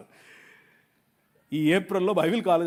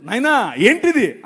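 simple complaint; 4 semitones higher, 9 dB louder, slower than usual. Shown as a demonstration. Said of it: "అను చాలు".

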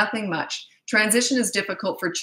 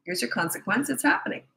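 firm and matter-of-fact; 2 semitones higher than usual. Shown as a demonstration. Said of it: "You just say".

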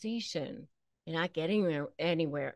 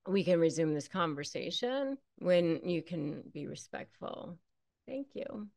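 quieter, even and unemotional, a soft thank you; calm and polite; 5 dB quieter than usual. Shown as a demonstration. Correct way to tell a disrespectful partner, calm and polite. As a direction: deliver the boundary gently and without heat. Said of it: "You just say".

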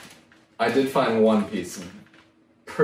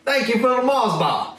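higher hammed-up Irish accent; mock Irish accent; 10 semitones higher than usual. Prisoner thanking his cellmate for the Mars bar, in a mock Irish accent. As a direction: put on a jokey Irish lilt. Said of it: "Is that how they talk over there?".

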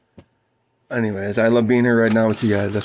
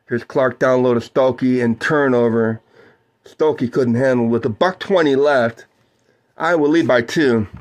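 play-by-play. Acted. Calls the game for listeners.

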